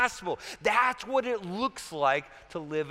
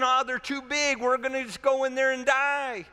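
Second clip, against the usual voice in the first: higher-pitched mock dismay; complaining; 5 semitones higher than usual. Spies back from the promised land fear the giants, complaining. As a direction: act out a defeatist moan. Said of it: "They complain".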